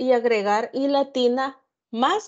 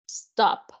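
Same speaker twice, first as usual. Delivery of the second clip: whispered demo. Shown as a demonstration. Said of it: "repeated demo, unvoiced".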